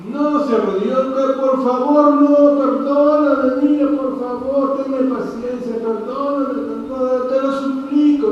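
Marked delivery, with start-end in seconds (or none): 1.4-8.3 beg, dragging out the no; begging for mercy. Acted. Fellow servant begging the servant for patience, desperate plea.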